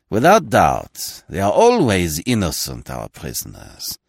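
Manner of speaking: mock the prisoner's innocence; sneering. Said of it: "short, unpleasant laugh".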